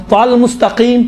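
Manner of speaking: تل said thick and full, as Arabic ط; heavy emphatic T. Shown as a demonstration. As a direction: correct it to a heavy "Tal" in تل مستقیم. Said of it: "تل دیکھیں، تل نہیں ہے".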